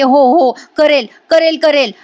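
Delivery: retold frightened shout, kept small; mild mock yell. Priya gives in to the gunman, mild mock yell. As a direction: imitate yelling agreement without full volume. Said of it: "Priya मोठ्याने ओरडते आणि म्हणते".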